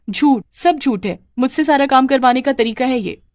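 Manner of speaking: high-pitched, indignant outburst; indignant accusation. Acted. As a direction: denounce the trick, drawing out the first words. Exposes the lie to mother-in-law. (नाराज़गी भरा आरोप)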